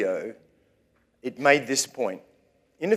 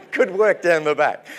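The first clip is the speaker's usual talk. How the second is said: loud, higher-pitched shout of praise; calling out; 5 semitones higher, 9 dB louder than usual. Real, not acted. Preacher praising those down the back, calling out. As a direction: throw it loudly to the back of the room.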